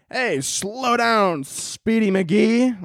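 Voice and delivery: very slow, high transatlantic parody; hammed-up, drawling old-timey transatlantic taunt; transatlantic accent. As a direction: stretch it out in mock transatlantic. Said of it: "transatlantic accent".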